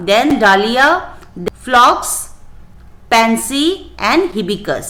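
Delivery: each answer spelled out very slowly for copying; slow dictation. Shown as a demonstration. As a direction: read it out word by word, very slow, so children can write. Teacher dictating answers to class. (बहुत धीरे, लिखवाने वाले अंदाज़ में)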